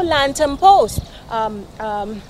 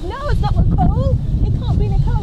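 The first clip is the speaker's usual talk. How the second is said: higher-pitched imitation of a disbelieving friend; retold disbelief; 7 semitones higher, 3 dB louder, faster than usual. Friend refusing to believe it is Nicole, retold disbelief. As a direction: act out her incredulous denial.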